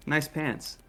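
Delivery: a hint of a put-on voice; disguised voice. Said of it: "in my disguised voice".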